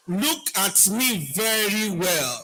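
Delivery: slow, swaggering "Look at me very well"; slow proud attitude, each word weighted. Shown as a demonstration. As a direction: say it like you own the room, slowly. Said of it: "you have to say with an attitude".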